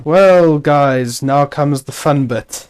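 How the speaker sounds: mock-cheerful announcement; sarcastic fun. Real, not acted. Host announcing a tedious villager chore, sarcastic. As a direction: announce the chore as if it were a treat. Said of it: "That was a sarcastic fun".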